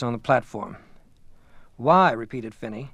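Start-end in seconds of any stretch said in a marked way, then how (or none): 1.8-2.1 pointed retort. Acted. Finney echoes the question pointedly.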